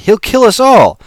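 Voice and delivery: high, loud warning shout. Acted. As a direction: yell to stop him. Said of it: "Alex shouted".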